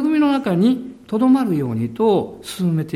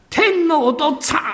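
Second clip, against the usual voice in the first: Osaka dialect cry; 7 semitones higher than usual. Retold or imitated. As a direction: call out like a weeping Osaka man. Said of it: "彼は大声で言ったんです". (大阪弁で叫ぶように)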